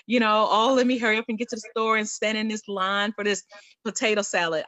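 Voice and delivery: hammed-up complaining about party errands; mock complaining. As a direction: gripe about errands like a put-upon chore-runner. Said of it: "I'd always complain".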